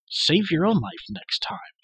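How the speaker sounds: put-on boy snapping at his rescuer; angry retort. A narrator's reading. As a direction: throw it back with hurt pride. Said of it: "Terran retorted angrily".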